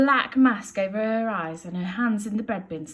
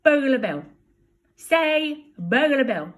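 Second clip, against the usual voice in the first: put-on coaxing a baby; 6 semitones higher, 8 dB louder, slower than usual. Teaching the baby words.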